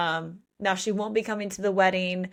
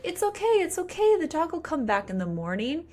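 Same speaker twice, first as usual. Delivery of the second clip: mock reassuring; 8 semitones higher than usual. Voicing Marco reassuring Luna.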